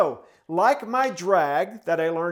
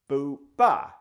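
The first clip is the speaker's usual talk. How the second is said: vocalized drum strokes; 2 semitones lower, 3 dB louder than usual. Shown as a demonstration. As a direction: sound out two drum strokes, the second one punched. Vocalizes soft drag, then accented stroke.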